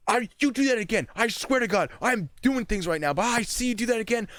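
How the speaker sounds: high, loud threatening yell; retold screaming. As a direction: threaten him at full volume. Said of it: "screaming at this dude".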